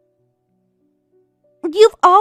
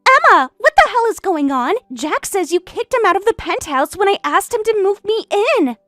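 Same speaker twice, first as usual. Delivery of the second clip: angry demands; 3 semitones higher than usual. Acted. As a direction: demand answers, outraged. Mistress furious over penthouse.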